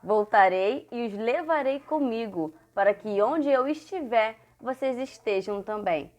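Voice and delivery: slow, measured Bible verse reading; verse recitation. Acted. Teacher reading Jesus's promise to children, measured recitation.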